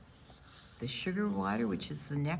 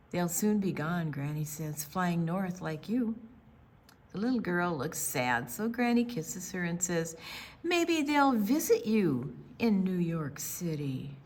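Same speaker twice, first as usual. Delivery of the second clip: put-on gentle read-aloud narration for kids; story narration. A narrator's reading. Librarian reading to children, gentle storytelling voice. Reads picture book aloud.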